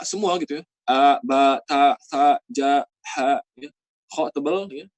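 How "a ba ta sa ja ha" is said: "A, ba, ta" with open A vowels, each syllable set apart; thin letters with A. Shown as a demonstration. Teacher drills thin Arabic letters for student, open A. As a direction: recite "A, ba, ta, sa, ja, ha" as separate drill syllables. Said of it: "Yang bunyinya nanti A".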